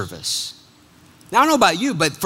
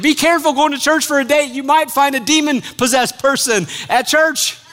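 playful warning; 7 semitones higher than usual. Real, not acted. Joking warning to congregation.

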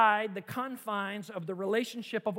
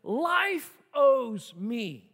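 voice of jealousy; 7 dB louder, much slower than usual. Acted. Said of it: "jealousy says".

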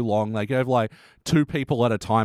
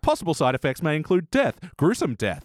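cheerful ad with eerie menace. Retold or imitated. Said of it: "like an American drug commercial".

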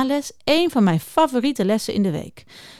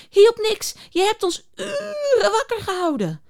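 high, fretful beaver voice; grumpy beaver; 6 semitones higher than usual. Acted. The tired beaver scolds Juniper for keeping them awake, high and fretful. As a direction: complain in a squeaky, worn-out beaver voice.

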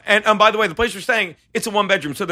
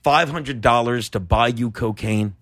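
Artie Lang impression; 7 semitones lower, 4 dB quieter than usual. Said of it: "He's like".

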